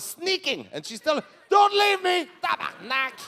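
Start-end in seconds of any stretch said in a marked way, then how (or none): 1.5-3.1 high, loud mock-desperate cry; imitating a desperate girlfriend shouting; desperate yell. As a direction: yell it out in hammed-up panic. Acts girlfriend crying out not to leave.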